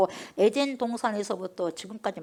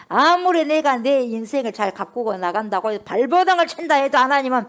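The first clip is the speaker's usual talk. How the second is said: usual speaking voice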